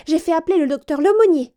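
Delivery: high, loud, panicked chambermaid; a servant trying to hide her alarm; breathless lady's maid reporting to her mistress; flustered maid. A narrator's reading. Maid voiced.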